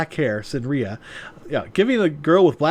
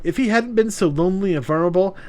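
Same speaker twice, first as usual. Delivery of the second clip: smug woman voice; 3 semitones higher, faster than usual. Acted. Voices Yuna.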